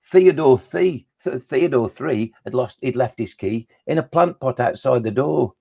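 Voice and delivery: playful counting rhyme with stretched names; comic poem recital. Acted. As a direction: recite a children's rhyme, lingering on each name. Recites the Number Fun poem.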